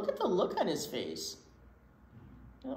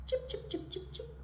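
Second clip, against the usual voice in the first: whispered chip; 7 dB quieter than usual. Acted. Tree chirping whisper.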